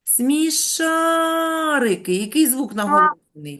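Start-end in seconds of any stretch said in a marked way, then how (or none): 0.0-2.1 very slow, drawn-out and higher; slow, higher teacher demo; said slowly. Shown as a demonstration. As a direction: stretch each syllable for the class. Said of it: "промовте його повільно".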